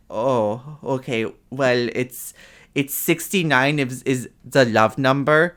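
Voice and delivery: lightly voiced kooky old Russian nurse; Russian nurse accent. Old Russian nurse explaining to a patient, light Russian accent. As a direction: imitate a quirky Russian lady explaining. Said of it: "this, like, old Russian lady".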